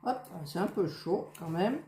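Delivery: talking through a hot mouthful; mouth full. Real, not acted. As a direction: speak around a bite of food. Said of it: "de pas parler la bouche pleine".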